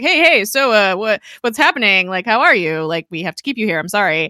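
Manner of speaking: awkward, overeager greeting that settles down. Retold or imitated. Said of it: "he's so freaking awkward".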